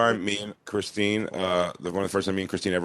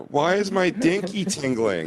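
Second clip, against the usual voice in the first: mock bewildered kid; 8 semitones higher, slower than usual. Mocking young Dan.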